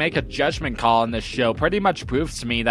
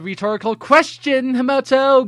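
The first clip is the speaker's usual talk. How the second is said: builds from raised and higher to a full shout on Himoto; mock exasperated scolding; 10 semitones higher, 6 dB louder than usual. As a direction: scold him louder every time you say his name, ending in a yell.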